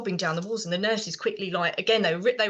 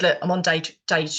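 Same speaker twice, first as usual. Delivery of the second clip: jokey warning. Retold or imitated. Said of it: "we kind of say it in a jokey way".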